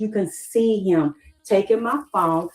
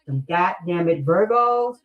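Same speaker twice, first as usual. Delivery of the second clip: slow, drawn-out roll call of culprits; exasperated listing; slower than usual. Real, not acted. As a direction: stretch each sign out with disgust. Exasperated slow list of signs.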